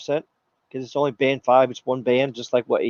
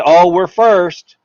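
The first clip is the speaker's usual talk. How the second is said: mock bragging; 2 semitones higher, 7 dB louder, much slower than usual. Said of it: "even though they're bragging".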